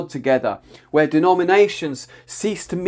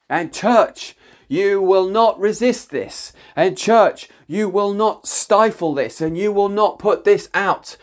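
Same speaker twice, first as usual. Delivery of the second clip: higher and forceful, leaning on not; stern prophetic warning; 5 semitones higher than usual. Real, not acted. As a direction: warn the church with raised intensity.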